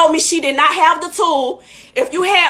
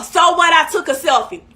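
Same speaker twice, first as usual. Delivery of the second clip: indignant shout. Real, not acted. Indignant retort to the stylist.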